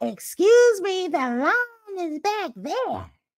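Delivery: prickly, curt, very high and drawn out. Retelling waiting near a line, imitating a lady who got snippy with a girl. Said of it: "she got all snippy".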